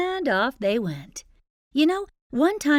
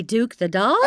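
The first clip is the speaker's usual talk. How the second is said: ordinary delivery, nothing marked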